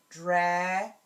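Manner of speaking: "Dragonfly" in three loud pieces with long gaps; broken into syllables. Shown as a demonstration. Teacher giving word parts for students to blend, broken into syllables. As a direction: break "Dragonfly" apart: dra, gon, fly. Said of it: "as you break apart the word".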